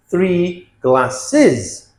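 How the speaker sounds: "glasses" split as glass-iz; is plural ending. Shown as a demonstration. Teacher models plurals, "glasses" with a separate iz syllable. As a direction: sound out the added iz on "glasses". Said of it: "and is".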